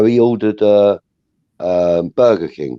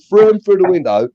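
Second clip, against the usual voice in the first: high, heated restatement; heated retelling; 6 semitones higher than usual. Retold or imitated. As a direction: still fuming as he repeats it. Angry retelling of throwing bag.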